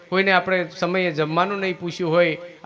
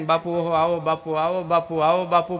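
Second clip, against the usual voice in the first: welcoming sisters. Retold or imitated. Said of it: "બાપુ બાપુ થઈ જાય ને".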